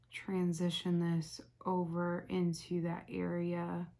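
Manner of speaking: slow monotone robot voice; speaking like a robot. Real, not acted. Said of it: "why am I talking like a robot?".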